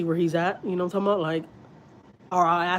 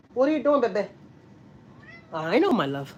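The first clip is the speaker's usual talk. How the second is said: high cooing question to a pet; 3 semitones higher than usual. Real, not acted. Mom asking her cat what he's doing in high baby talk. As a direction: ask the kitty sweetly.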